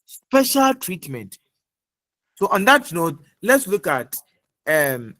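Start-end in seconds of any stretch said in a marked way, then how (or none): 0.1-1.4 slow, deliberate, every word weighed; slow emphatic repeat. Real, not acted. Teacher to class, stressing the key term slowly. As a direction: spell it out slowly so it sticks. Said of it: "I repeat".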